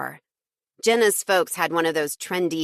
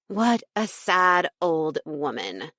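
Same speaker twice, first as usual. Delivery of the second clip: slow, sneering disdain; scornful; slower than usual. Acted. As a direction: sneer at her mother. Jenna mocking her mother.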